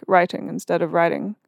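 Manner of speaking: first "writing" with a sharp British t, second with an American flapped d; crisp British t. Shown as a demonstration. Partner showing how she now enunciates her t's. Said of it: "enunciating T's and stuff".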